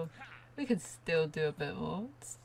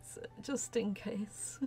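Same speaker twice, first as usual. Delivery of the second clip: whispered aside; 3 semitones higher, 8 dB quieter than usual. Real, not acted. Aside while playing.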